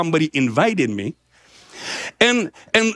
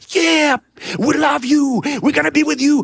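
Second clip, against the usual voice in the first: imitating an eager crowd, high-pitched; cheering crowd; 8 semitones higher than usual. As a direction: cry out like enthusiastic supporters. Crowd backing his little revolution.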